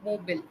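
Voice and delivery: "Mobile" as MOH-bil, falling; correct pronunciation. Shown as a demonstration. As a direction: end "Mobile" in a short "bill". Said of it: "it is actually pronounced as".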